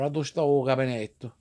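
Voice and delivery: "A dove sta" slurred to "ah-doshta"; Hoboken Italian-American. Shown as a demonstration. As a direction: run "dove sta" together, Italglish style. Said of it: "that's the way we would say it".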